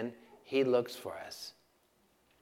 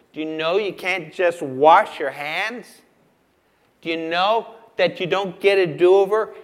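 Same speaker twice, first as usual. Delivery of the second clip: challenging preaching; 3 semitones higher, 9 dB louder than usual. Real, not acted. Challenges the congregation with questions.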